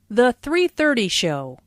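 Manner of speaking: "three thirty" weighted, "show" falling away; emphasize "three thirty"; stress on "three thirty". Shown as a demonstration. Teacher showing a show time, stress on "three thirty". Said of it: "Notice the emphasis on three thirty".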